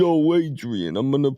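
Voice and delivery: mock punch-drunk boxer voice; Rocky. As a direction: imitate a movie boxer calling to his wife. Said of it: "you wanna hear Rocky?".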